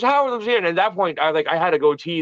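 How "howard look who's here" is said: raised-pitch call to a friend; retold excited presenting. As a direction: imitate announcing a surprise guest. Don presents him to Howard.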